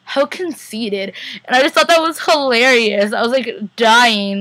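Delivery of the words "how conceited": slow, softened character imitation; Elijah. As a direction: draw it out quietly, as if imitating someone. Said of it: "straight up in, like, Elijah's voice".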